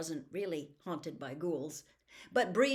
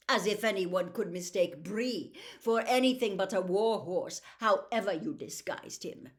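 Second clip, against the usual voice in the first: louder, dismissive scoff; scornful; 5 dB louder than usual. Acted. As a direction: brush the idea aside haughtily. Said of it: "rather scornfully".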